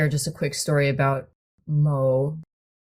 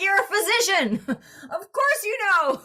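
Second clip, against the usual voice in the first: laughing disbelief. Retold or imitated. Telling the modest old doctor she obviously knew, laughing. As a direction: laugh it off, incredulous.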